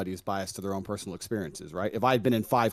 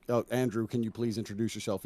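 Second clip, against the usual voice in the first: polite request; 4 dB quieter than usual. Retold or imitated. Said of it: "You say".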